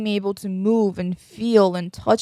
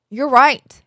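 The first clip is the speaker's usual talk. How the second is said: milder, playful admission of fault; toned-down agreement; 4 semitones higher, 4 dB louder than usual. Acted. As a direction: concede it, only slightly raised. Same concession, toned down.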